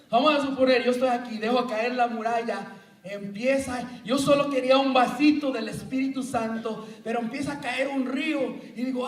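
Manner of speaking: lively acted flood of water, rushing toward the end; mock drowning panic. Preacher acting out drowning in the Spirit, excited. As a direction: play it big, like water is pouring in.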